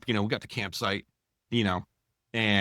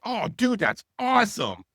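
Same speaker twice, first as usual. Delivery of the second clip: much higher, gushing fake excitement; mock-delighted answer to the fire chief; 12 semitones higher, 4 dB louder than usual. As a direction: gush over it like a fan.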